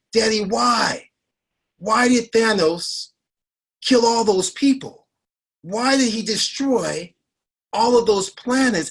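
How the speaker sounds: put-on sobbing, tearful little girl voice. Retelling a daughter's question in a movie theater, imitating her crying. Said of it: "as she's literally crying in the movie theater".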